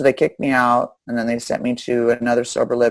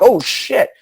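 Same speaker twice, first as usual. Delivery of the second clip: impressed guys; 12 semitones higher, 6 dB louder than usual. Retold or imitated. Guys reacting to her crime.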